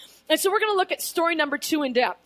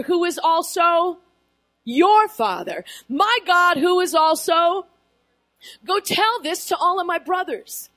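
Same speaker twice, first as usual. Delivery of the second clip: loud driving reread of Jesus's words; emphatic proclamation; 2 semitones higher, 3 dB louder than usual. Acted. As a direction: preach each phrase with force. Preacher rereads Jesus's words forcefully.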